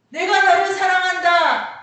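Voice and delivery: very loud, high-pitched declaration of love; preacher's ringing cry; emphatic proclamation. Acted. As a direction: proclaim it at full force.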